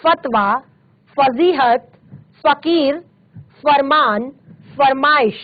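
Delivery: फतवा, फजीहत, फकीर, फरमान, फरमाइश each on f; nukta f sound. Shown as a demonstration. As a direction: open every word from फतवा to फरमाइश with f, not ph. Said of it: "क्या कहेंगे".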